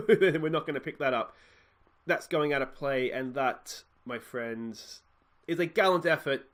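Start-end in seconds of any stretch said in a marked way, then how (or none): 0.1-1.3 said through a laugh. Real, not acted. Gamer laughs at empty midfield, louder through laughter. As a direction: chuckle at the hopeless ball.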